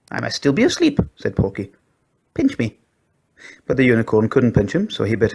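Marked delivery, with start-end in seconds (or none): 0.1-1.0 high little dog voice, bewildered; a pug sure he is dreaming; high pug voice, dazed; dazed squeaky pug. A narrator's reading. Porky's voice. 2.3-2.8 high little dog voice, bewildered; a pug sure he is dreaming; high pug voice, dazed; dazed squeaky pug. A narrator's reading. Porky's voice.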